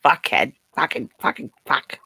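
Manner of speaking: put-on light Boston tough-guy accent; clipped-r Boston swearing bit. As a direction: do a hammy Boston "kid".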